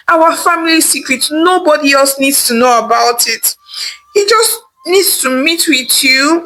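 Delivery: husband begging his wife to accept his brother. Acted.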